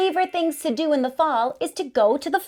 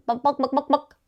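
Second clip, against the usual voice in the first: clucking like a hen; chicken clucking; faster than usual. Pretend.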